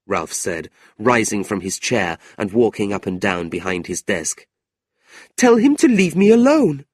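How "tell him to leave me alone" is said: put-on a young niece burning with anger, voice pitched up high; angry young woman. Niece complaining to her uncle, high and indignant. Kate demands.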